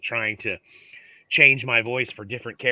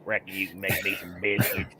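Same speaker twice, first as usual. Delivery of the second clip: put-on Southern accent; 5 semitones lower, 4 dB quieter than usual. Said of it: "Southern accent".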